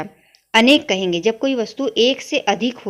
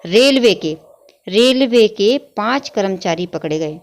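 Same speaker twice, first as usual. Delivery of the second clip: रेलवे के put first and hit loud, the rest read slowly; stress on रेलवे; 3 dB louder than usual. Shown as a demonstration. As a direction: punch the word रेलवे, then read on slowly. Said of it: "पहले रेलवे शब्द आएगा".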